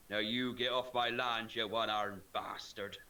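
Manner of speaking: slow, low farmer growl; gruff farmer. Retold or imitated. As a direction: send him off slowly. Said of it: "when he fires his inbred family".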